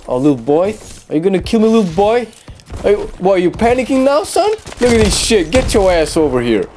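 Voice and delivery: rising, mocking taunt. Real, not acted. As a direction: tease the scared opponent. Taunting an enemy.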